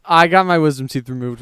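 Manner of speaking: talking with a swollen jaw; ice pack on jaw. Real, not acted. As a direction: speak around a sore mouth. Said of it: "Your mouth".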